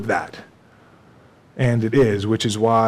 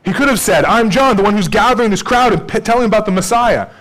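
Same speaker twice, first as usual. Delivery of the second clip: raised, louder pulpit delivery; full-force preaching; 10 semitones higher, 7 dB louder than usual. Acted. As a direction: preach it out to the congregation.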